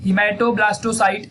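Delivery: hematoblastocite said again, still slow but smoother; slow repeat. Shown as a demonstration. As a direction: repeat hematoblastocite at an easier, joined-up pace. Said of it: "तो उसका नाम है hemato".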